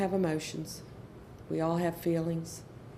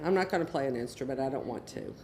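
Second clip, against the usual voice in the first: lower, fast refusal fading soft; stubborn teen; 5 semitones lower, 3 dB quieter, faster than usual. Retold or imitated. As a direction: rattle off a sullen no. Child refuses band.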